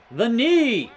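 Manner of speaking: sharp cry at the knee hit; pained surprise. Real, not acted. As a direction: yelp as the knee lands. Reacts to knee hit in game.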